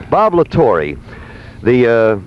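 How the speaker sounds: low, casual sponsor pitch; live ad read. Real, not acted. Host reads a sponsor ad.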